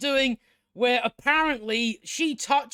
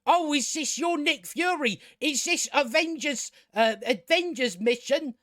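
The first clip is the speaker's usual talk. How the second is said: higher-pitched imitation of an eager hero; mock jokey character; 4 semitones higher than usual. Reviewer mimicking Ms. Marvel's jokey scene, mock jokey character. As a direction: put on a higher voice, mocking the jokey line. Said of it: "It's a jokey, jokey scene, and she says".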